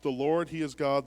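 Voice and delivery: the people on their faces proclaim it. Acted. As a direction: cry out the first praise.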